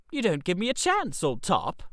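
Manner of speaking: soft, soothing reassurance; calm a worked-up friend down softly. Acted. Reggie soothing his upset friend Freddy, soft and calming. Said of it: "I said soothingly".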